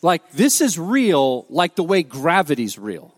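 "this is real" drawn out slowly, each word weighted; "real" stressed with slow, earnest conviction; retold emphatic insistence.

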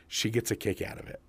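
husband's conspiratorial whisper; whispered aside. Retold or imitated. Husband to the salesman, whispered aside. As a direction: confide it in a hush. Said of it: "he goes".

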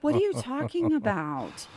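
lightly put-on sugary innocence; mock sweet. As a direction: imitate feigned sweetness. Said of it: "she's all sweet".

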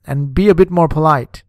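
ordinary delivery, nothing marked

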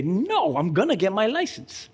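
high-pitched, determined "no" to oneself; acted determination. Preacher recalls telling himself to get licensed, determined. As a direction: push back with resolve, starting high. Acted resolve to face driving fear.

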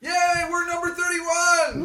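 high, slow mock celebration; sarcastic cheer. Sarcastic cheer at dead last.

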